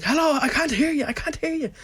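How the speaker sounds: imitating a confused farmer on the phone. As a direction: play a farmer who can't hear the caller. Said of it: "And he's like".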